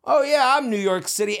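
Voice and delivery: high, mocking boast of a suburban poser; mock bragging transplant. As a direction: squawk it like a wannabe New Yorker. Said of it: "start squawking off".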